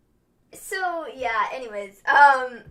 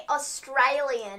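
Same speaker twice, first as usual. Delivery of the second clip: drawn-out "Australian" in an Australian accent; attempted Australian accent; much slower than usual. Shown as a demonstration. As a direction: say "Australian" slowly with an Aussie twang. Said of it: "make it sound sort of".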